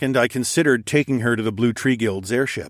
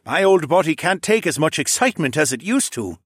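put-on higher-pitched old man's voice; aching old father; 6 semitones higher than usual. A narrator's reading. Old father excuses his sore back, aged voice. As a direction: complain about aches like an old dad.

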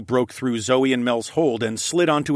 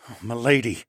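breathy. Acted. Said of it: "the gallant raccoon man breathed".

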